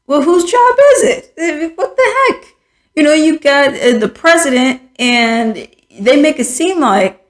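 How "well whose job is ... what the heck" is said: high, laughing disbelief; incredulous laugh. Real, not acted. Ranting at the vice president, breaking into incredulous laughter.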